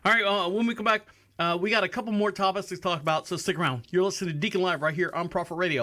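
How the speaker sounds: upbeat break announcement; radio host voice. Acted. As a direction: sell the break to listeners.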